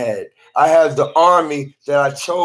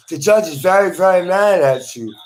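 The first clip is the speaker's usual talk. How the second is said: higher-pitched mock insistence; retold insistent warning; 5 semitones higher than usual. Hospital evaluator warning the patient, retold as higher insistence. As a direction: press the point, voice lifted in imitation.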